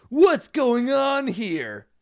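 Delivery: high, slow, loud demand; shouting. Acted. Jackson demanding answers from the men, shouting. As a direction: call out sharply to the strangers. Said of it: "he shouted".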